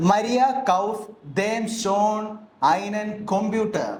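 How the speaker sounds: German sentence read slowly and clearly; slow German example. Shown as a demonstration. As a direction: dictate it slowly for the learners. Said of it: "ഞാനൊരു example പറയാം". (പതുക്കെ വ്യക്തമായി German വാചകം)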